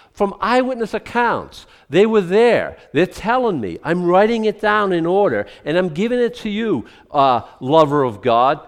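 high, loud, emphatic protest; insistent Luke. Acted. Luke insisting to Theophilus, high loud emphatic. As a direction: hammer home that it's true.

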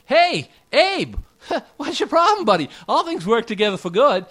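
high, loud, laughing jab at a grieving man; hammed-up pal slapping a mourner on the back; mock tactless comforter. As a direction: play the glib buddy brushing off grief.

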